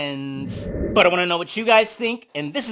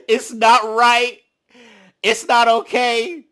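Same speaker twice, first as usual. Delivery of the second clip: slow, louder, mock diva delivery; 4 semitones higher, 7 dB louder, slower than usual. Joking about sneaking her, in a mock singer voice. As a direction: belt it out diva style, half-joking. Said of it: "in my diva voice".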